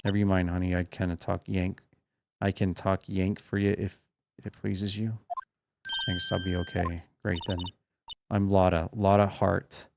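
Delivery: a hint of a cranky Southern woman's drawl. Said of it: "southern folks talk with that exaggerated drawl".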